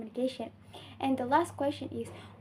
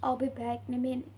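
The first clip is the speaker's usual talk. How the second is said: quicker statement, falling on "minute"; falling intonation; faster than usual. Shown as a demonstration. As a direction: pitch drops at the end on "minute". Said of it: "pitch of voice drops at the end".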